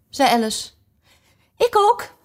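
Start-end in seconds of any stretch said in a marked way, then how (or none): 1.6-2.1 whispered. Acted. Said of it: "fluisterde de witte koningin".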